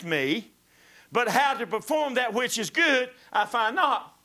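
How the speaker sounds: loud, rising preacher's cadence; preaching. Acted. Preacher reading scripture to the congregation, loud and fervent. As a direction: preach it out with full force.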